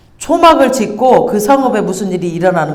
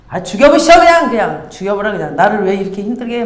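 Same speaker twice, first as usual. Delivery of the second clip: whiny Jonah. Retold or imitated. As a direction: whine like a sulky child. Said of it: "막 이러면서 난리를 치는 거예요". (신세 한탄하며 투덜대는 요나)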